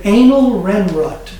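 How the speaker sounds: slow Anal Renrut, Lana Turner in reverse; backwards speech. Shown as a demonstration. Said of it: "Lana Turner".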